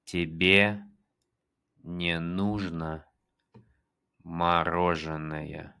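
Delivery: slow, careful Russian; slow teacher demo; slow model. Shown as a demonstration. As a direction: draw out "мороженое" slowly. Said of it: "repeats the model".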